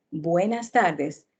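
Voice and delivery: "buenas tardes" dropped low and slowed right down, falling on "tardes"; calm, low, unhurried "buenas tardes"; low slow greeting. Shown as a demonstration. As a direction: sink the pitch and stretch "buenas tardes". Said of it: "Por ejemplo".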